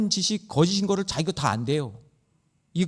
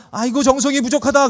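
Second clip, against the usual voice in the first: higher, louder hammed-up shaman sigh and verdict; mock shaman; 10 semitones higher, 7 dB louder than usual. Preacher mocks a shaman asking for money, hammed-up complaint. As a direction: play the greedy shaman scolding the client. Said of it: "정성을 더 하면 귀신이 오는 거예요".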